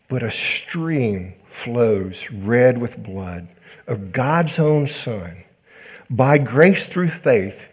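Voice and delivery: slow, weighty reading with long pauses; solemn sermon reading. A narrator's reading. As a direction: read it out deliberately, letting each phrase land. Reads a quotation to the congregation.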